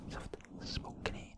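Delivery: slow drawn-out whisper; whispered last before switching voice. Shown as a demonstration. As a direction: breathe the word out slowly. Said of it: "nyt siirrytään softspokeniin".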